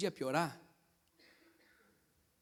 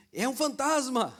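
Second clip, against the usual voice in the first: louder, higher slow mock scream of fright; terrified cry; 7 semitones higher, 7 dB louder, slower than usual. Disciples screaming at the ghost, mock terrified cry. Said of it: "o texto diz assim".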